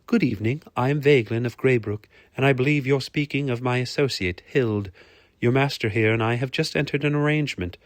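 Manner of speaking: a hint of a poised noblewoman; formal lady.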